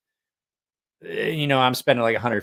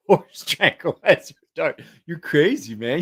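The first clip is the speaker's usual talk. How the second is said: slow, higher mock movie line; quoting a film character for a laugh; Old School movie quote; 6 semitones higher, 4 dB louder, slower than usual. Quoting Old School to friends, slow higher mock movie voice. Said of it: "that was Old School".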